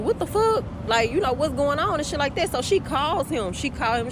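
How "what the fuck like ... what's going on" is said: high, startled what the fuck; alarmed surprise. Retold or imitated. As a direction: jump at the honking horn. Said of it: "she just like".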